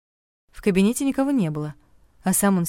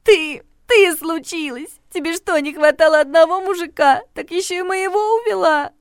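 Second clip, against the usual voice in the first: furious accusation; 12 semitones higher, 7 dB louder than usual. Acted. Regina accuses the heroine of stealing her man, furious. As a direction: lash out at the rival.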